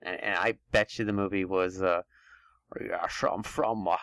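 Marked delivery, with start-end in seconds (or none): 2.8-4.0 a hammed-up southern accent trailing off; mock southern accent. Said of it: "This is my southern accent".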